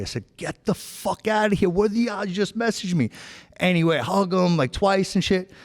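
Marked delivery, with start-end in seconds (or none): 0.4-3.1 disbelief. Retold or imitated. Recognizing old friend Charlie.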